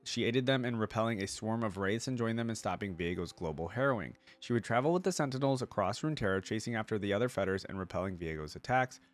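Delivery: even, measured article read-out; reading aloud. Acted. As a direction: read it out like an encyclopedia entry. Reads the character's lore aloud.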